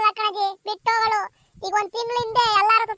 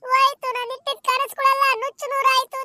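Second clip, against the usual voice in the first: crying. Acted. Mother learns daughter's secret.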